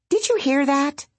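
a little creature perking up; Bongo the critter. A narrator's reading. Bongo to the tree, a high small-animal voice.

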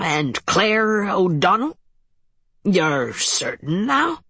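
measured, curious Irish captain; Irish accent. Acted. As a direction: ask carefully in an Irish brogue. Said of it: "His voice carried a measured curiosity".

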